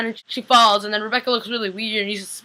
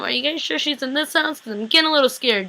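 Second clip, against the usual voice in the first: higher-pitched, slightly nervous question; mildly scared; 4 semitones higher than usual. Retold or imitated. Viewer recalling the house search, mildly scared. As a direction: ask with a touch of nerves. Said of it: "I was getting kinda scared".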